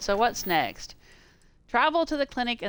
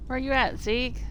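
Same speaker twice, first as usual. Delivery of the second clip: calling out; 6 semitones higher, 5 dB louder than usual. Real, not acted. Calling out for companion.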